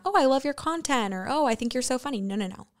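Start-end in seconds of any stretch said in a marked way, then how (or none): 0.0-1.1 higher-pitched gushing fan; imagined fan. Retold or imitated. Imagining what a stranger should have said first, lightly mimicking a fan. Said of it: "first thing out of her mouth". 1.3-2.2 higher-pitched fan compliment; imagined fan. Retold or imitated. Listing compliments the stranger never gave, lightly mimicking a fan. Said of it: "first thing out of her mouth".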